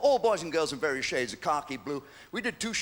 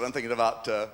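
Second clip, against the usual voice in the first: seductive phone line; 7 semitones lower than usual. Retold or imitated. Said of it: "I said".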